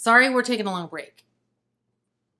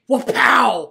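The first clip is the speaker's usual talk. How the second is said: a hint of Chandler's sarcastic whoop-pow; lightly voiced sitcom catchphrase; imitating Chandler; 9 dB louder than usual. Quoting Chandler's catchphrase to her co-host, lightly imitated. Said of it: "Or as Chandler would say".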